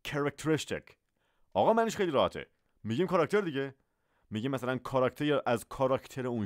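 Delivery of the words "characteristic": "characteristic" in full, "ke-rek-te-RIS-tic"; teacher's careful demo of "characteristic"; correct pronunciation. Shown as a demonstration. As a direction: join "characteristic" up from its "ke-rek" start. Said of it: "تلفظ صحیح این لغت".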